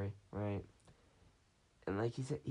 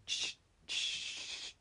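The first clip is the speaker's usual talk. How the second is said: breathy hushing whisper; whispered shush. Retold or imitated. Friend hushes inside the room, whispered shush.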